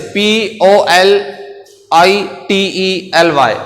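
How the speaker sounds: letters spelled one by one, slowly; slow spelling out. Shown as a demonstration. Teacher spells a word for students, slowly letter by letter. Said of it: "politely नरमी से".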